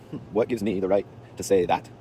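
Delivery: slow, musing echo of the question; drawn-out, thoughtful self-questioning; pondering. Retold or imitated. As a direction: mull it over word by word. Echoing the question back, pondering it.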